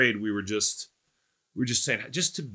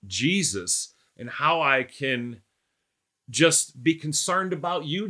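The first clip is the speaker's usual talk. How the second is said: prayer. Real, not acted. Pastor prays aloud mid-sermon.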